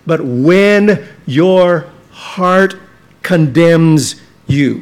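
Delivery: slow, with "when" leaned on hard; stress on when. Shown as a demonstration. Preacher to congregation, slowly stressing "when". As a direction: draw out "when your heart condemns you" slowly, pressing on "when". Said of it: "he uses the word when, not the word if".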